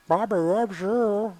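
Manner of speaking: giggly sneering imp. Acted. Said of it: "Stop doing the Bobby voice".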